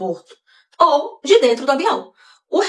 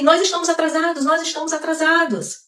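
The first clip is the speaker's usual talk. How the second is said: retold shout; 5 semitones higher than usual. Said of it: "tava dizendo pra todo mundo ouvir".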